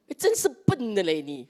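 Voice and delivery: hammed-up telling-off; mock scolding. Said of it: "maybe they didn't say it like that".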